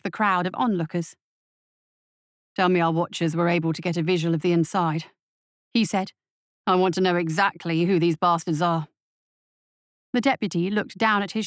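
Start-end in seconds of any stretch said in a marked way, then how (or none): 2.6-8.9 low clipped commander voice; a police captain giving orders, lower; stern captain. Acted. Captain to his deputy, lower and firm.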